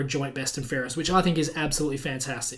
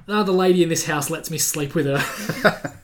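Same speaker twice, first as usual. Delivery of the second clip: laughing punchline; 4 dB louder than usual. Retold or imitated. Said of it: "to which he replied".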